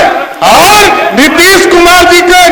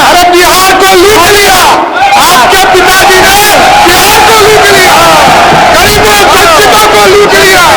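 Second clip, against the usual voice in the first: raised, insistent political accusation; heated accusation; 3 semitones higher than usual. Real, not acted. Opposition member accusing rival's family of looting Bihar, heated. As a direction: hurl the charge across the chamber.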